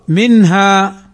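"منها" with a clear short n, then a distinct h; izhar demo. Shown as a demonstration. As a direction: sound the n of "منها" cleanly before the ha. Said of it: "فوجب الإظهار".

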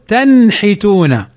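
slow "تنحتون", vowelless n clear before the ha; correct izhar. Shown as a demonstration. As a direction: close "تنحتون"'s first syllable on a clean n, no added vowel. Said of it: "إنما نقول".

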